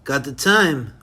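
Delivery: a barely-there bad English accent, "governor" said "guvnah" with a falling end; the speaker putting on a sarcastic, hammed-up Cockney "guvnah" that hardly leaves the narrator's own voice; lightly voiced mock English accent, the "governor" bit thrown in sarcastically; terrible English accent. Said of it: "with a terrible English accent".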